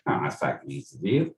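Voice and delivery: brief put-on Cockney accent. Shown as a demonstration. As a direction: try a quick Cockney accent impression. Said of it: "It's not the accent".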